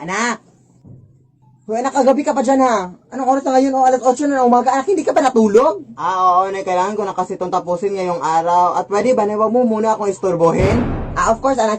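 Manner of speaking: put-on mother quietly checking on her child; hushed. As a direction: keep it down late at night. Late night, quiet household.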